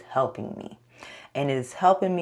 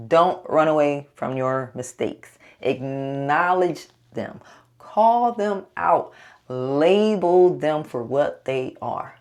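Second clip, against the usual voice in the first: slow, louder firm advice; emphatic coaching; 4 dB louder than usual. Real, not acted. Vlogger firmly coaching viewers about mistakes. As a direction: drive each instruction home. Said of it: "coaching listeners on mistakes".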